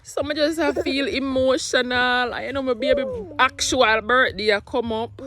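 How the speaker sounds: a real catch of tears in the voice; fighting back tears while talking; emotional, near tears. Real, not acted. Mother near tears about her baby's first birthday. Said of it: "Just give me a minute".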